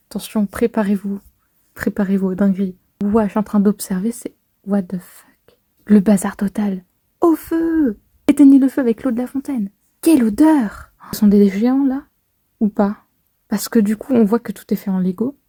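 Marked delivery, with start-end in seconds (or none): 4.1-5.6 slow, whispered disbelief; hushed what the fuck; whispered shock. Real, not acted. Stunned reaction to the chapter. 7.2-10.9 higher, urgent crowd cries; lightly voiced panicking villagers; panicked townsfolk. Reads crowd shouts in the manga.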